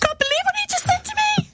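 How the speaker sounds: high, hammed-up Liverpool outrage through laughter; panto Scouse. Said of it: "I can sound a lot more scouse".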